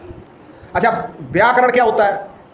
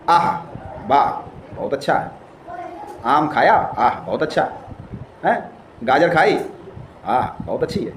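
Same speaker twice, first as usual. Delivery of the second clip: savouring delight; 5 semitones lower, 5 dB quieter than usual. Shown as a demonstration. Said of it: "demo of relishing food".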